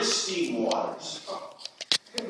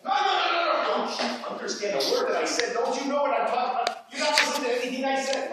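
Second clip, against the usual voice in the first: acted exasperation; 6 semitones higher, faster than usual. Actor's frustrated outburst in scene.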